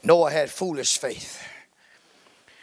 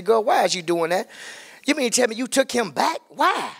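incredulous questioning; 5 semitones higher than usual. Acted. Mimics gossiping people questioning a choice.

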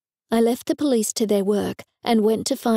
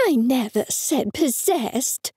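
yelled; 3 semitones higher, slower than usual. A narrator's reading. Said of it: "she yelled".

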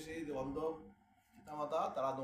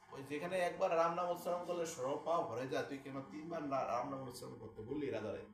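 angry rebuke. Retold or imitated. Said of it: "মুনি আয়ার মহা খেপে গেছে".

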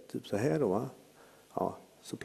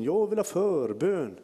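put-on old woman demanding; 6 semitones higher, 4 dB louder, slower than usual. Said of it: "ropar hon med rollatorn".

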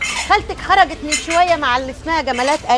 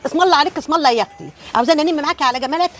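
mock astonishment; 2 semitones higher than usual.

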